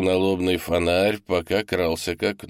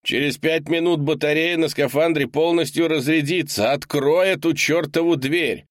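freezing man outside begging to be let in; desperate shouting man; 9 semitones higher than usual. A narrator's reading. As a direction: pound on the door with your voice. Leonardo shouting through the door.

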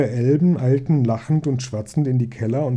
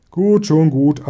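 placating; 3 semitones higher, 6 dB louder, slower than usual. A narrator's reading. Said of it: "antworteten sie".

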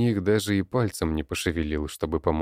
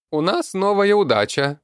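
high creaky goblin voice, loud, удача for задача; goblin mispronouncing задача as удача; 7 dB louder than usual. A narrator's reading. Goblin announces the new task to the crowd, garbling it. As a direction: shout "новая удача" high and creaky, mangling the word.

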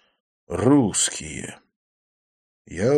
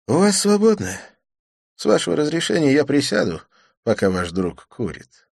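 polite; 7 semitones higher, 4 dB louder than usual. A narrator's reading. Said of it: "вежливо осведомился".

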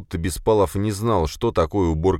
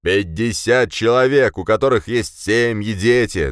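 loud, higher outraged voice; shouting; 6 semitones higher, 5 dB louder than usual. A narrator's reading. Boss shouts about fifty dead guards, outraged. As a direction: shout each phrase with indignation. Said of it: "а затем перешёл на крик".

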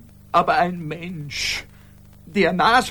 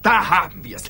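exasperated outcry; 2 semitones lower than usual. Acted. Exasperated outburst.

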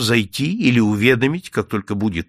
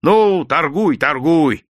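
grudging consent; 5 semitones higher, 5 dB louder, slower than usual. A narrator's reading. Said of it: "согласился дворник".

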